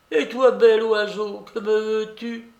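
high, scornful challenge; shouting babouchka. A narrator's reading. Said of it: "elle criait à pleine voix". (babouchka qui invective)

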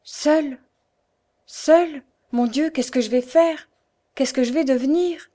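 high, loud desperate wail; heartrending cry. A narrator's reading. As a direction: cry out, lost and alone. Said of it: "s'était écriée d'une voix déchirante".

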